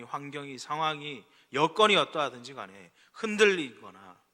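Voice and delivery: loud, fervent exhortation with surging emphasis; preaching. Real, not acted. Preacher urging believers to hold only to the Word, forceful preaching. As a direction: preach it with full conviction.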